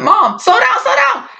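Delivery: very high squealed plea; mock panic. Child begging raging mom to slow down, mock-panicked squeal. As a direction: squeal it in hammed-up alarm.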